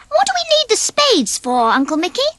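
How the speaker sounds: a small, curious whisper; Ferdy. Acted. Ferdy asks Uncle Mickey about the spades, high and whispered. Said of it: "asked Ferdy".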